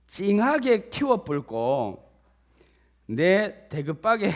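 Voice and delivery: loud, hearty put-on Jeolla accent; hammed-up Jeolla recitation; Jeolla dialect. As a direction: proclaim it in folksy Jeolla dialect. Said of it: "전라도 버전이더라고요".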